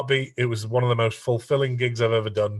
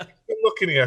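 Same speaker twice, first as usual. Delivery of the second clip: laughing; 7 semitones higher, faster than usual. Retold or imitated. Retold panic, laughing.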